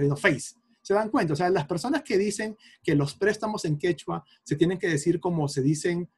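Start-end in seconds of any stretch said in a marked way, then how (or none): 0.2-0.5 "face" with a Spanish ei vowel; Spanish pronunciation. Shown as a demonstration. Teacher pointing out the Spanish sound, feis pronunciation. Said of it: "Eso es español también".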